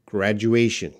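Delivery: "graduation" enunciated clearly, falling at the end; pronunciation demo. Shown as a demonstration. Teacher answering a request to pronounce, "graduation" carefully enunciated. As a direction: sound out "graduation" with "ay" before the final "shun". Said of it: "Could you please pronounce".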